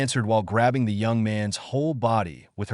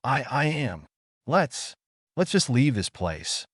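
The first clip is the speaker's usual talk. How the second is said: embarrassed spluttering; 3 semitones higher than usual. Acted. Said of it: "Midna spluttered in embarrassment".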